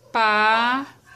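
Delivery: "Paralelepípedo" with a long pause after each syllable; split into syllables. Shown as a demonstration. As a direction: dictate "Paralelepípedo" one syllable at a time. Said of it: "vamos separar essa palavrinha".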